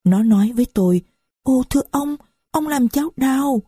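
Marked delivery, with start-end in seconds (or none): 1.4-3.6 put-on higher, childlike little girl; little girl's voice. A narrator's reading. Little Marie to the stranger hugging her, childlike. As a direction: speak as a small hurt child. Father hugs little daughter.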